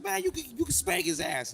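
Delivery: loud cheering yell; screaming from the back. Retold or imitated. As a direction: yell it from the crowd. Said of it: "I'll be screaming at you".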